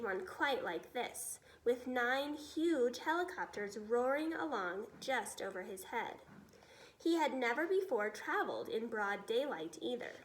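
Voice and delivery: steady storybook reading voice; storyteller reading aloud; story narration. A narrator's reading. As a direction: read it to children, clear and even. Reads BFG story aloud.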